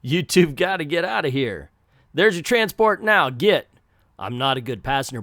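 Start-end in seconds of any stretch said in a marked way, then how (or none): 0.0-3.7 put-on "You two've gotta" redone in the proper southern accent; corrected southern take. Caretaker sending the two away, in a southern accent. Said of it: "I changed the southern accent up a little bit here".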